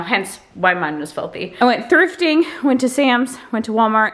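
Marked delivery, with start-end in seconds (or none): 1.6-4.1 winded, gasping between phrases; breathless from carrying bags in; out of breath. Real, not acted. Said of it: "and I'm out of breath".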